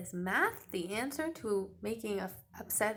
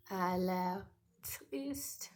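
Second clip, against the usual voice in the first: slow whisper for a sad face; 2 semitones lower, much slower than usual. Shown as a demonstration. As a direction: hush it, he looks sad. Teacher hushes sad observation.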